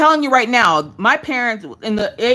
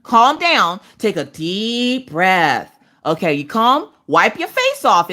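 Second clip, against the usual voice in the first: put-on slow, calming voice to a crying child; soothing mom; slower than usual. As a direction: ease him down slowly. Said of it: "you have to usually tell him".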